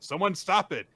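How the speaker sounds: high, loud cry for help; imitating an alarmed yell; acted shout. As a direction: call out urgently to the whole room. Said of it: "So Akane shouts out".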